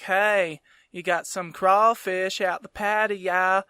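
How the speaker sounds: put-on genteel British-tinged Southern accent; British-style Southern accent. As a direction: lightly imitate an old British-Southern accent. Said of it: "British kind of Southern accent".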